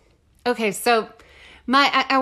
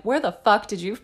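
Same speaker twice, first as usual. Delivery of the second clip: mock reporter firing questions, rising; pushy reporter; 4 semitones higher than usual. Imagined reporter grilling the team, mock frantic. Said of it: "go up to them and be like".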